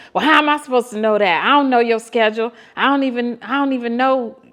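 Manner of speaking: imitating him getting loud and fast; mild mock yell. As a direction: rattle it off fast, mildly yelling. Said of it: "He starts yelling".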